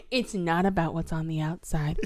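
whispered mock moral; stage whisper. Mocking the movie's heavy motif, stage whisper. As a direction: whisper the lesson pointedly.

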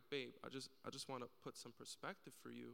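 soft, gentle word to a partner; loving wife. Retold or imitated. Wife gently advising her excited husband, loving. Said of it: "lovingly, she tells him".

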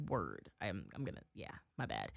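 low, soft backpedalling; acted embarrassment. Retelling being told to relax by a chef, embarrassed. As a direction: shrink away under your breath. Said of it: "then I got embarrassed".

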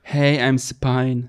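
slow, American accent introduction; English accent. Shown as a demonstration. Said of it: "mit englischem Akzent aus".

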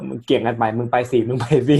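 staff pushing each other, laughing; laughing quote. Retold or imitated. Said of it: "มันคุยแบบ".

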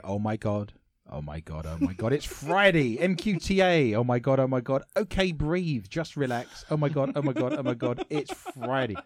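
reading the fan post with mild excitement; excited read. Shown as a demonstration. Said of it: "admire his enthusiasm".

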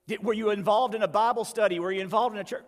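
quick, mildly exasperated questioning; interrogating angel. Retold or imitated. Angel quizzing the thief on church, mildly exasperated. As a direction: fire questions at the newcomer.

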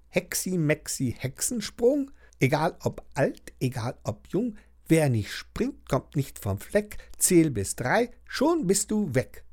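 rhythmic incantation, rising line endings; murmured spell. A narrator's reading. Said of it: "murmelt den Zauberspruch". (gemurmelter, rhythmischer Zauberspruch)

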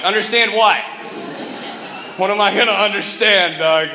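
alarmed demand. Retold or imitated. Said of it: "I'm like".

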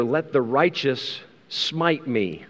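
each word drawn out slowly; slow solemn read of Let the righteous smite me; slow scripture reading. Acted. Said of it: "The Bible says here".

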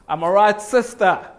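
hollow, going-through-the-motions cheer; fake enthusiasm. Church greeting between members, with put-on cheer. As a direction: say it like you don't mean it. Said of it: "Not fake enthusiasm".

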